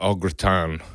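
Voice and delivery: au gratin slowed, with a half-hearted French accent; attempted French accent. Shown as a demonstration. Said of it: "I can't do accents like au gratin".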